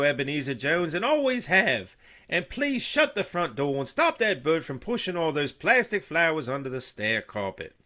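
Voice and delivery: high, loud, exasperated wail; wailing Martha. A narrator's reading. Missus Jones wailing at daughter and husband, high and loud. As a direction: wail at the whole household. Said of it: "Missus Jones let out a wail".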